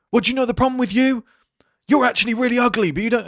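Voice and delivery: high, fast mocking voice of a spiteful person; high mocking jab; petty insult voice.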